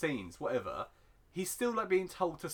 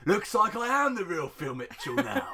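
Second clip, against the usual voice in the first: hammed-up proclamation; 4 semitones higher, 4 dB louder than usual. Hammed-up impression of soap character.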